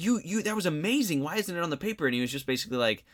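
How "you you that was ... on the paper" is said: high, stammering disbelief; a teacher who can't square the debate with the essay; baffled disbelief. Retold or imitated. Teacher pressing the student about his thin paper, disbelieving and high.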